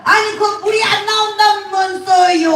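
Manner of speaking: put-on high Gyeongsang-accented protest; Gyeongsang dialect. Repairman asks about the water, high Gyeongsang accent. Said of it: "그러니까 이 남자가".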